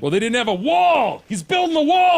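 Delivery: mock enthusiasm. Cohost mocking the wall as drug cure, high and loud. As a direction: ham up blind faith in the wall.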